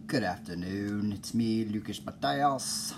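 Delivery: slow, low, lightly put-on podcast host hello; a mock-formal radio greeting. Podcaster greeting his listeners in a mock-formal voice. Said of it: "I don't know why I'm talking like that".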